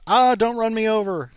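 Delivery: high, squeaky mock panic; mock fearful plea. Timid cyclist begging not to be hit, mock panic. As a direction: whimper it like a scared pedestrian.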